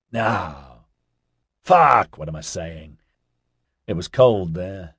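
loose, mellow stoner guy; laid-back hippie voice. Acted. Ozzy's held laid-back voice.

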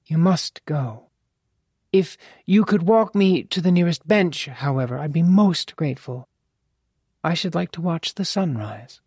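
lightly voiced gracious lady; dignified mother.

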